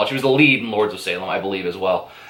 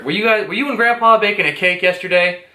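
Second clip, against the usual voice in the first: put-on high, innocent kid voice; little boy voice; 7 semitones higher than usual. Little boy innocently asks grandma about the cake, high kid voice. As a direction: ask it like a curious little boy. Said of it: "the little boy says to his grandmother".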